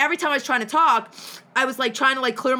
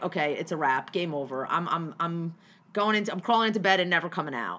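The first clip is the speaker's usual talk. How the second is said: defeated giving up; 4 semitones lower than usual. Retold or imitated. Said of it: "breaking point yesterday where I was like".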